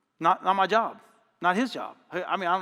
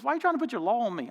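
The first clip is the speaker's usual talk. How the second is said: higher, quick challenge; retold argumentative protest; 5 semitones higher, faster than usual. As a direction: imitate someone protesting in an argument. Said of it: "we got in a huge argument".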